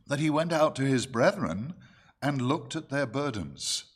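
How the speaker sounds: measured, emphatic Bible-reading voice; scripture reading. Acted. Preacher reads the story of Moses to the church, scripture reading. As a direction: read the verses out firmly to the congregation.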